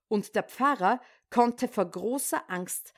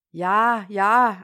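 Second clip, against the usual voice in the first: impatient husband; 7 dB louder than usual. Acted. Frieder ruft ungeduldig zurück.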